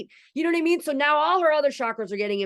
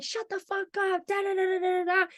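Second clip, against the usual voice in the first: mimicked angry man; 9 semitones higher than usual. Mom's boyfriend silencing a little girl, mock snarl. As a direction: sneer it like the bully silencing a child. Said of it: "some guy was like".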